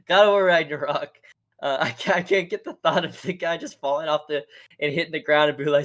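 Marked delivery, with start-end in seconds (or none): 0.1-1.1 laughing. Real, not acted. Repeats title laughing.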